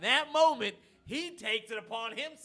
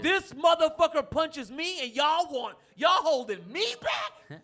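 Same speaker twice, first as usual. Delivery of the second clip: indignant shout; 6 semitones higher, 6 dB louder than usual. Retold or imitated. Retelling how the bar held him back after the punch, laughing outraged shout. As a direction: yell it like you can't believe they're holding you back.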